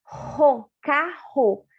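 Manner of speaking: Ro and carro, the "rr" as one throat sound; sounding out the double R. Shown as a demonstration. Teacher to pupils, sounding out the double R. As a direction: say "carro" with a single guttural R. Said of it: "Carro significa com dois R's".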